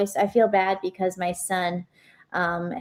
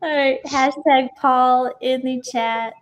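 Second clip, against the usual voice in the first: laughing; 5 semitones higher, 3 dB louder, slower than usual. Real, not acted. Laughing through the announcement.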